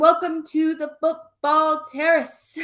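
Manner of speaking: hammed-up American accent host greeting; mock American accent. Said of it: "I did it in an American accent".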